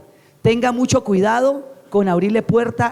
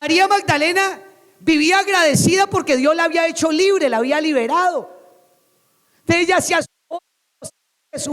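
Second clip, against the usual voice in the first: high-pitched, driving scripture reading; impassioned preaching; 6 semitones higher than usual. Acted. Preacher reads Mary's story to congregation, impassioned. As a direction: preach the verse out to the room.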